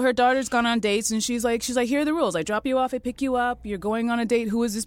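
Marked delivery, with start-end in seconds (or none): 1.9-4.9 strict mother. Retold or imitated. Mother sets rules to daughter.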